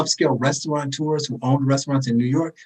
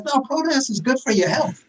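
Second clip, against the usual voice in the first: mock official advice; 9 semitones higher than usual. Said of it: "the C D C says".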